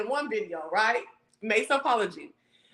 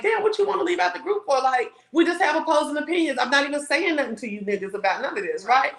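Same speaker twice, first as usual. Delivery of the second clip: upset; 4 semitones higher than usual. Retold or imitated. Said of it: "I got upset".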